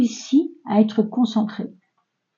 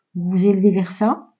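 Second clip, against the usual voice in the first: normal talking voice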